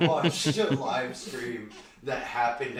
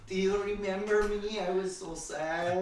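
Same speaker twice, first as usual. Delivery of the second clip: high mock sad voice; 8 semitones higher than usual. Caller mocks sad voice.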